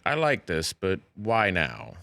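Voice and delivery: a hint of a slow, dry boss; slow, deadpan producer question; Lorne Michaels. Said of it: "Lorne Michaels goes".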